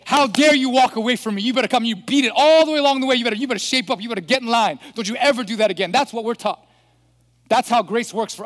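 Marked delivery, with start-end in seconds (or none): 0.0-5.9 mock-angry telling-off in a raised voice; scolding. Preacher acts out an owner berating the lost sheep, scolding. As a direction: scold hard, imitating an outraged owner. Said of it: "you go and you scold it".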